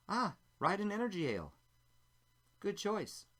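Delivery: a hint of a sly female stranger; stranger woman at the bar. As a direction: pitch up to voice the woman. Stranger woman greets him at bar.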